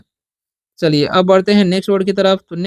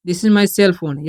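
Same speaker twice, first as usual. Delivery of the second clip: slow dictation; much slower than usual. Shown as a demonstration. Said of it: "कैसे बनाएंगे".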